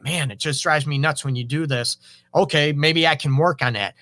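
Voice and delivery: name it gently, then offer to change; calm, honest admission. Acted. Calm owning of a pet peeve.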